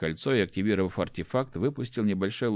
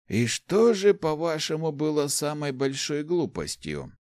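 higher pitch with a smile in it; amused, smiling question; 7 semitones higher than usual. A narrator's reading. Rector asks about the biggest blunder, amused. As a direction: ask with gentle amusement, lingering on the end. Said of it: "хмыкнул и с улыбкой спросил".

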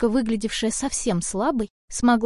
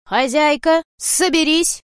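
loud, higher urgent cry; shout; 5 semitones higher, 5 dB louder, slower than usual. Acted. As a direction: snap her out of it. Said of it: "крикнул рыжий Варе". (громкий тревожный крик кота)

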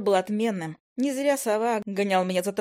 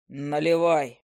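gruff gnome; 5 semitones lower, much slower than usual. Acted. Gnome character voiced.

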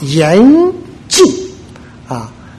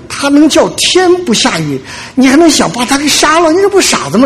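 mocking disbelief; 9 semitones higher than usual. Preacher mocks the king's logic.

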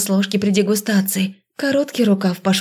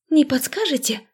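feigned innocence; 7 semitones higher than usual. A narrator's reading.

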